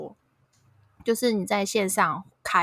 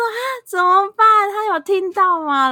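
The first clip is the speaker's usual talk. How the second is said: higher and louder, half-laughing alarm; retold panic; 13 semitones higher, 9 dB louder than usual. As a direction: replay the moment of panic. Retold panic after husband's mic. (惊慌失措地喊)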